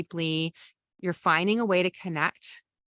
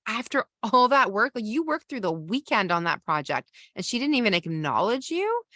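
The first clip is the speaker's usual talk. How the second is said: higher, sympathetic agreement; validating partner; 4 semitones higher than usual. Shown as a demonstration. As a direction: side with them, outraged for them. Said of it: "You want them to say".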